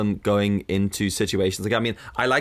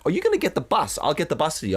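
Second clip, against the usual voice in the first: high-pitched keen offer; mock eager, raised voice; imitated eager friend; 6 semitones higher than usual. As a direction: pipe up high like an over-helpful mate.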